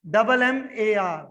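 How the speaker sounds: जी आर ए spelled letter by letter, slow; spelling it out. Shown as a demonstration. Teacher dictating spelling to students, slow letters. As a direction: slowly spell out जी आर ए. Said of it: "grammar".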